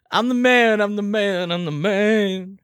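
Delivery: chuckling boast; laughing "I'm the man". Pretend. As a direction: laugh through it. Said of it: "not when you're the man".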